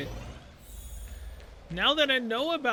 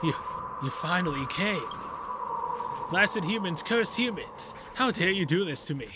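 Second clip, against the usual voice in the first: lightly voiced cursed ghost, building from hurt to outraged; indignant ghost. Voices the angry ghost creature.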